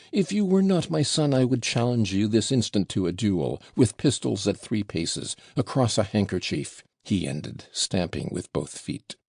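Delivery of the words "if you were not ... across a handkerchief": unnatural yell. Acted. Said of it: "yelled ... in an unnatural voice".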